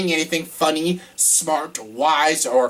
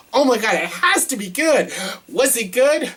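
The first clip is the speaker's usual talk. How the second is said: rising excitement; 8 semitones higher than usual. Real, not acted. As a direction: pitch climbing high with eagerness. Building anticipation.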